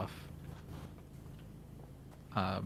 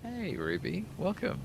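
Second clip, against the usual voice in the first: bright, raised welcome; excited greeting; 9 semitones higher, slower than usual. Real, not acted. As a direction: greet her warmly and high. Greeting arriving chat member.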